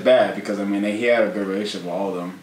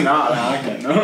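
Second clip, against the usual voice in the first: mocking imitation; 5 semitones higher, 5 dB louder than usual. S1 mimics S0's refusal.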